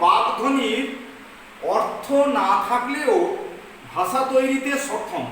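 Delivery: slow, chunked phrases for students to write; slow dictation. Shown as a demonstration. Teacher dictating slowly to students taking notes. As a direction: spell it out slowly so they can copy. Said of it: "তোমরা লিখে নাও".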